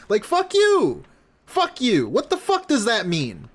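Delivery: high furious yell; angry outburst. Real, not acted. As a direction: explode at him. Ranting at DSP's clip.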